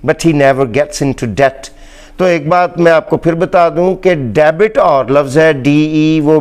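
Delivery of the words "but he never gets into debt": very slow, carefully read English sentence; slow teacher reading, debt with a silent b; slow example sentence. Shown as a demonstration. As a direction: dictate it word by word. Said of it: "فقرے میں ہم اس کو استعمال".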